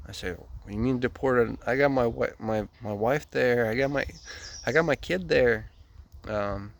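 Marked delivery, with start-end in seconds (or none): 0.3-5.7 raised, louder reenacted protest; agitated protest. Deported man telling an official his wife and kid are there, agitated protest. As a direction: act out distressed disbelief, pushing pitch and volume up.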